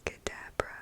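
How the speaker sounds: Abracadabra breathed as unvoiced whisper. Shown as a demonstration. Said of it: "whisper voice and soft-spoken trigger words".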